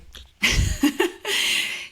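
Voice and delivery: a sudden high laugh on the breath; high breathy laugh. Real, not acted. Host laughing at the boss's remark, high breathy laugh.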